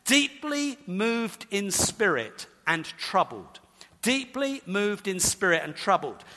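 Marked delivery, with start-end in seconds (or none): 0.1-3.6 slow, weighty reading. Shown as a demonstration. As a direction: let each word land slowly. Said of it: "translated something like this".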